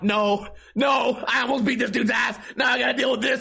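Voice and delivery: yelling in disbelief, Karen hit loudest; exasperated shout. Retold or imitated. Exasperated rant at bad luck.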